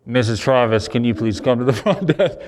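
lightly imitated store PA announcement; a hint of a desk announcer. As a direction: page a customer over the speakers. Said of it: "call your mother on the, the speakers".

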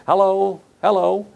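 high, squawky mock parrot saying hello. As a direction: chirp it like a talking parrot. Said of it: "Yeah, I say".

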